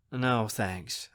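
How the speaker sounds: low-key, miffed refusal; understated annoyance. Acted. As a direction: decline quietly, slightly put out. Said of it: "I say, feeling miffed".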